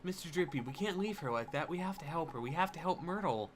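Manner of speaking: a hint of a pleading young hero; lightly voiced earnest boy. Boy urging the fairy to help the girl, mildly pleading.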